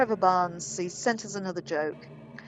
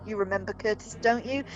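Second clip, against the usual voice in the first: taunting accusation. Acted. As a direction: needle them harder with each repeat. Taunting, escalating accusation read aloud.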